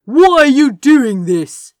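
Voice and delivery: loud, high bewildered question; genuinely can't understand it; baffled. A narrator's reading. Confused lord questions rebel Crow, baffled and loud. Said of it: "he sounded genuinely baffled".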